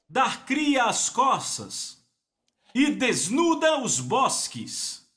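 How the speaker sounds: slow, weighty reading of the verse; slow scripture reading. Acted. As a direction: read it out like holy writ, drawn out.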